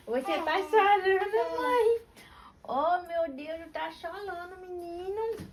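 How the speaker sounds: very high, slow, sing-song cooing. Real, not acted. Soothing her crying baby.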